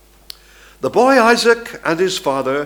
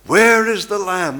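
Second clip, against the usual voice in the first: higher and louder, stress on Where; ringing cry; 5 semitones higher, 3 dB louder than usual. Shown as a demonstration. Preacher voices the old testament cry, loudly. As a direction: call it out as a plea.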